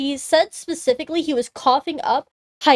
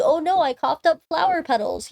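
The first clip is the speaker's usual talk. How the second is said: higher, hammed-up fake alarm; mock fake distress; 4 semitones higher than usual. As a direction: play a faker putting on a worried act. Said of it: "he just starts fake coughing".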